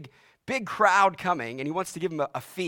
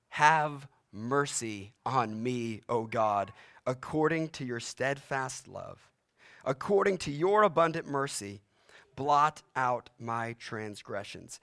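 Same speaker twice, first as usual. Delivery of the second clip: prayerful plea; 3 semitones lower than usual. Acted. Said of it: "Psalm fifty-one starts like this".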